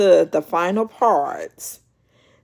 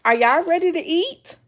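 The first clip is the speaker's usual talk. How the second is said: higher, bright hostess call to dinner; 9 semitones higher than usual. Retold or imitated. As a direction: invite everyone to eat like a proud hostess. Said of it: "then Jackie said".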